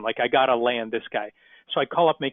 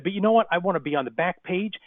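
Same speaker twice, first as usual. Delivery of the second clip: demanding plumber; 6 semitones higher than usual. Retold or imitated.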